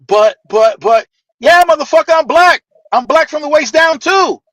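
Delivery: indignant outburst. Retold or imitated. Uncle's stunned outburst.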